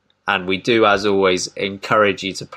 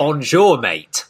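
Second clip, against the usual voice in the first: a cheeky French Bonjour then a flat mate; mock French greeting; 5 semitones higher, much slower than usual. Repeating the joke greeting with a hint of French. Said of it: "I forgot to translate that".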